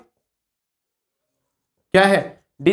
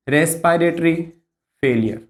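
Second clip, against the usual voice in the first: lower, measured repeat with a pause between words; 4 semitones lower than usual. Shown as a demonstration. Teacher repeating the key complication for students, measured dictation. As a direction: say "respiratory", pause, then let "failure" drop low.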